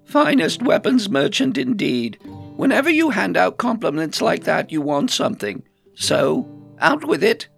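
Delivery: high, loud knowing retort; exasperated. A narrator's reading. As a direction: scoff and demand they come clean. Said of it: "rolled her eyes".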